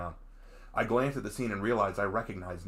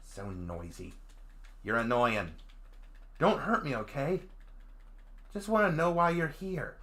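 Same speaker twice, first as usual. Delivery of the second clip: put-on Southern country accent; 5 semitones higher than usual. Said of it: "southerner country accent".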